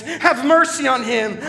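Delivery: anguished call for mercy; crying out. Acted. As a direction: plead over the noise of the crucifixion. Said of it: "I cried as they nailed".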